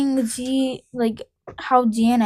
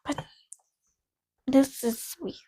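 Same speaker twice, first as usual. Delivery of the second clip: breathy whispered aside; whispering; 8 dB quieter than usual. Real, not acted. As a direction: whisper it under your breath. Muttered reaction while reading.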